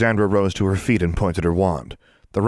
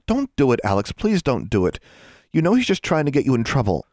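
pleading; 6 semitones higher than usual. A narrator's reading. Anna begs her friend to stop.

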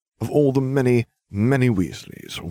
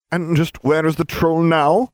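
inquiring; 10 semitones higher, 4 dB louder than usual. Acted. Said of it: "Severus inquired".

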